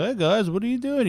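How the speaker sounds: high, soft-spoken friendly character voice; light, high put-on voice; Korg. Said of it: "You know, Korg, he's like".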